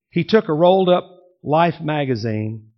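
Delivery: normal talking voice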